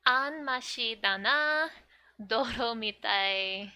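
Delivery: put-on loud, emphatic read of a child's verdict; a little blunt. Yotsuba judging the cake, loud and a little blunt. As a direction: blurt it out with punch. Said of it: "always a little blunt".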